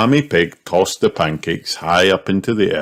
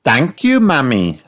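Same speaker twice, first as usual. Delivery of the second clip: Peppa voice; 7 semitones higher, 4 dB louder than usual. A narrator's reading. Peppa thanks Mummy.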